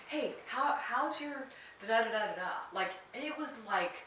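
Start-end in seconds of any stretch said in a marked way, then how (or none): 0.1-2.7 put-on higher, chatty child voice; lightly voiced kid. Screen-free kid chatting to another child, lightly imitated eager voice.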